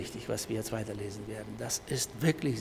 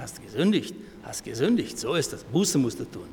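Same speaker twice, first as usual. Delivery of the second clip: accusing; 6 dB louder than usual. Acted. Acted accusers condemning the sick believer.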